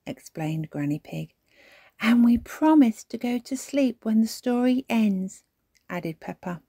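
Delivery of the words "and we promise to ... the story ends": put-on higher, louder little-girl voice; child chiming in. A narrator's reading. Peppa adding to Granny's explanation, piping up. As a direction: pipe up eagerly to explain.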